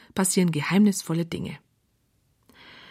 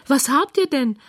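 startled; 6 semitones higher, 3 dB louder than usual. A narrator's reading. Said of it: "fragt Clara erschrocken".

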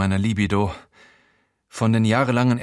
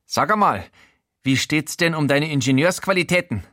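a fussy, nosy voice pitched up; Showalter's voice; 6 semitones higher than usual. Acted. Housemate Showalter startles the naked narrator, high. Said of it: "fragt Showalter".

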